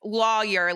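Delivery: "lawyer" as LAW-yer; regional pronunciation. Shown as a demonstration. Citing an Instagram poll on lawyer, regional pronunciation. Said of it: "about twenty percent of people say".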